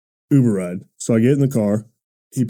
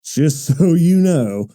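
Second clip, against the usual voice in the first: slightly raised, slow mock announcement; lightly announced, drawn-out heads-up; public service announcement; 3 semitones higher, slower than usual. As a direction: address the whole room with a mock advisory. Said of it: "give a public service announcement".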